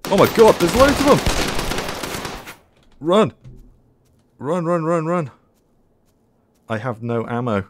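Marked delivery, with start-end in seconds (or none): 0.0-5.3 high frantic yelling to flee; panicked shouting. Real, not acted. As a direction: shout run in real panic. Horde charging, fleeing in panic.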